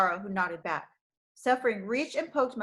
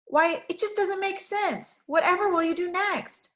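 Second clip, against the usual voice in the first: laughing; 9 semitones higher, 4 dB louder than usual. Acted. Girl bursting out laughing at the shepherd, amused disbelief. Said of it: "burst out laughing".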